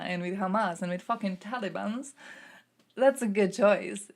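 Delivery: sarcastic mock approval. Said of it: "And you go".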